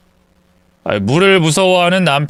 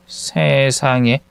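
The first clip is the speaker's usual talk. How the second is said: disbelief; 3 semitones lower, much slower than usual. Acted. Mother exclaims in disbelief.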